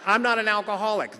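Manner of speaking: sneering label yelled at himself; mock loud accusation. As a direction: spit the word out with a laugh. Mocking shouted judgment.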